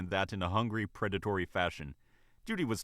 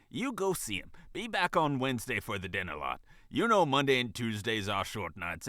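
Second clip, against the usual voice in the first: kind tone. Acted. Manager giving her waitress time off, kindly. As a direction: insist kindly, with emphasis. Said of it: "said in a kind tone".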